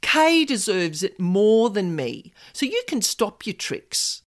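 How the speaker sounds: refusing the promotion bait, demanding. Retold or imitated. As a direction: demand he drop the tricks. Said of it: "said in a demanding voice".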